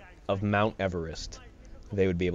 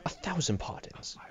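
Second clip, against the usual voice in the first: softer, higher British apology; mock British accent; 6 semitones higher, 9 dB quieter than usual. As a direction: parrot a polite British gentleman. Mimics the British game apology.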